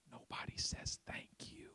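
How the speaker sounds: slow whispered emphasis. Acted. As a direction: drop to a hush to land the point. Preacher drops to intimate point.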